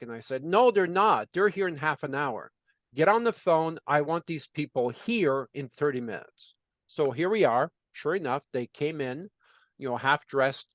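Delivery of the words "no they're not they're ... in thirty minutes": firm retold order. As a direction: bark the order at the business owner. Ordering the owner to call staff.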